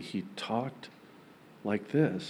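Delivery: very soft monotone voice, all one level. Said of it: "this really quiet voice".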